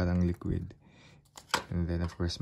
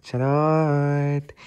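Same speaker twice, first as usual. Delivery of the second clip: joking charot; 6 semitones higher, 9 dB louder than usual. Acted. Joking after calling room romantic.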